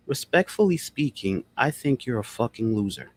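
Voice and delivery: calm, pleasant put-down; a polite, pleasant insult. Shown as a demonstration. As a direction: insult someone sweetly and politely. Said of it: "but I said it pleasantly".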